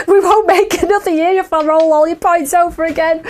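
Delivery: laughing through the words; laughing at the joke. Real, not acted. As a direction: giggle it out while talking. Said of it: "how funny is that?".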